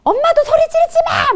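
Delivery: put-on high-pitched, loud child's retort; defiant shouting back. Child talking back to mother who yelled, defiant shout. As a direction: yell back at mum, voice way up. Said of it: "얘가 그때 대들었다".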